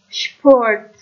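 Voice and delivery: شپورت with a clear shp and a falling end; German sp as shp. Shown as a demonstration.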